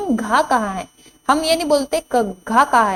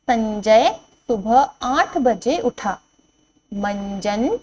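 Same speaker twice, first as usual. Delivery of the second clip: slow reading; slower than usual. Shown as a demonstration. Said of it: "slow sentence reading".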